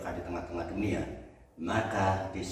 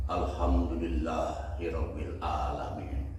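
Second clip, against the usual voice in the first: slow devout phrase; 4 semitones lower, slower than usual. Retold or imitated. Traveler first reciting the phrase to the camel, slow calm voice. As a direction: lower and slow, mild reverent tone on "Alhamdulillahirabbil alamin". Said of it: "langsung dia kata".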